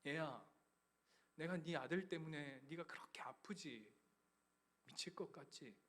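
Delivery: God tenderly answering the weeping father; gentle voice of God. Retold or imitated. God's gentle reply voiced.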